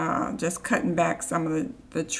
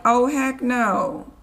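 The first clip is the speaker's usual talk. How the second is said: indignant; 5 semitones higher, 5 dB louder, slower than usual. Retold or imitated. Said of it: "And I'm like".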